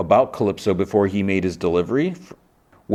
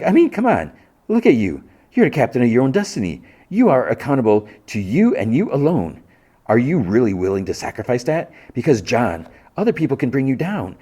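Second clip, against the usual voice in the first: lightly voiced Calypso, a touch higher and smoother; a mild salesman's pitch, half-performed; a hint of a charming cult leader selling freedom; 4 semitones higher than usual.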